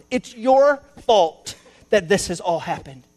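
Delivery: a touch of accusing Adam; mock accusation. Adam to God, lightly voiced blame. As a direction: point the finger at God. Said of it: "He's actually blaming God".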